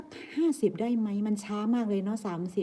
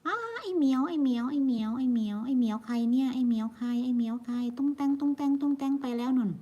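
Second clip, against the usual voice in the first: a bit higher, playful pet talk; talking sweetly to a cat walking past the camera; cooing at the cat; 4 semitones higher than usual. Real, not acted.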